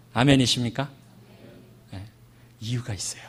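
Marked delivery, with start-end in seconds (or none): 2.6-3.2 hushed, voiceless aside; soft whispered reassurance. Real, not acted. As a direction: whisper it like a secret. Preacher drops to confiding.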